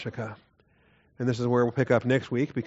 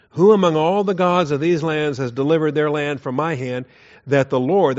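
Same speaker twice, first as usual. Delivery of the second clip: louder boasting challenge, easing off; declaimed boast; 3 semitones higher, 6 dB louder than usual. Acted. Assyrian envoy boasting over all the gods, declaimed boast. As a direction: open big on the rhetorical question.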